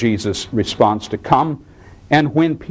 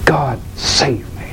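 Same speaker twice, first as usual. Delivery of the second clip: slow, pleading "God, save me"; slow plea; slower than usual. Retold or imitated. Pastor voices a soul crying to God, slow plea. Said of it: "willing to cry out yet".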